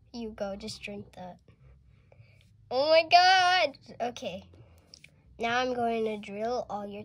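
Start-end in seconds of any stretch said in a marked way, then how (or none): 2.7-4.1 alarmed gasp. Pretend. Dentist reacts in alarm.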